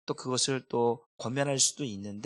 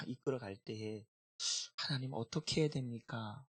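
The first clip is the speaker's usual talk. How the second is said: softer, earnest plea to God; quiet prayer; 5 dB quieter than usual. Retold or imitated. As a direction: murmur a tender prayer. Pastor quotes his tearful prayer. (혼자 기도하며 하나님께 드리는 조용한 간구)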